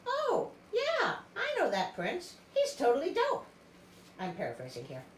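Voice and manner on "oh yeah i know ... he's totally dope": put-on high, bubbly valley-girl sister voice. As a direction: gush like a teen valley girl. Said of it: "one of them is like".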